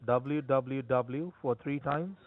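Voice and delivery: slow and deliberate; slow, careful dictation. Real, not acted. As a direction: spell it out slowly for her. Spelling slowly for a caller.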